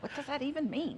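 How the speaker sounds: mock bafflement. Wife echoes baffled husband.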